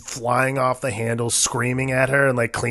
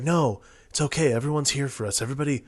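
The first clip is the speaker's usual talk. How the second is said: soothing happy face; faster than usual. Retold or imitated. Husband pacifying wife at the party, mock soothing. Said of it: "trying to put on a, like, happy face".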